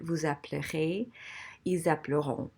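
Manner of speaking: "appellerez" with the E before R dropped; swallowed E. Shown as a demonstration. French teacher demonstrating the unheard E, swallowing it before R. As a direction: run L straight into R in "appelleront", no vowel between. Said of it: "I'm swallowing it. You don't hear it".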